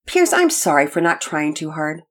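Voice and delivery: put-on small, apologetic child's voice; mildly sweet, contrite little sister; sweet and humble. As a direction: offer a sincere, humble apology. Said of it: "Penelope remarked sweetly and humbly".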